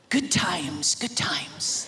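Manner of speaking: whispered, unvoiced mutter; muttering under his breath. Son coming home muttering to himself, whispered. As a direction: mutter it to yourself, barely audible. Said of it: "muttering under his breath".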